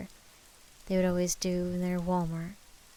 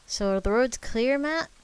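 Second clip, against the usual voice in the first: calling out; 5 semitones higher, 6 dB louder than usual. Acted. Calling over walkie-talkie.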